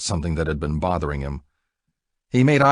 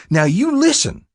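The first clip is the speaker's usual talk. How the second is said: sharp loud snap, much higher; snapped; 7 dB louder than usual. Acted. Buck snaps at Jack to shut up, loud and angry. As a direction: bark the warning at him. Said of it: "he snapped".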